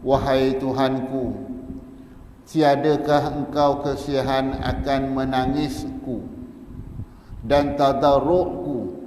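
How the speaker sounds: Prophet Daud pleading. Acted. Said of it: "Nabi Daud alaihi salam". (rayuan lantang Nabi Daud)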